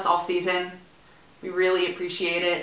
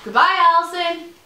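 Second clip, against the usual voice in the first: much higher, louder sing-song goodbye; cheery farewell; 11 semitones higher, 6 dB louder than usual. Real, not acted. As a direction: call her off cheerfully. Calling out to departing friend.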